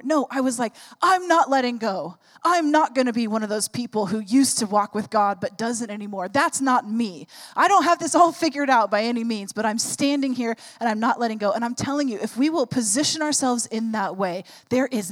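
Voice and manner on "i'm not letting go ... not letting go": loud, resolute retold vow; determined declaration. Preacher retelling her vow to stay with God, determined. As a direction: declare it firmly, refusing to give in.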